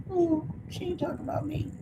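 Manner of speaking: high, soft, innocent put-on voice; a hint of a troll pretending innocence; mock oblivious viewer. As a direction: play the clueless troll lightly. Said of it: "you would be like".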